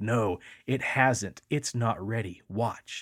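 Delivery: mock really angry, slow, deliberate voice. Retelling a trip story, quoting another voice: retelling an angry voice. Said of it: "it's real angry".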